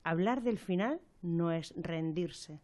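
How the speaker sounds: measured poetic reading with long pauses; reflective recitation. Acted. Radio presenter opens a programme on end-of-life decisions, reflective recitation. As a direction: recite it gently, line by line, letting each phrase rest.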